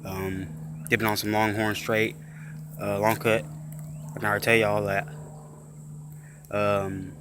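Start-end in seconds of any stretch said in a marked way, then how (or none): 0.0-5.1 talking around a lip full of dip. Real, not acted. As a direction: speak with a wad of dip in the lip. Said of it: "'cause I already got a dip in".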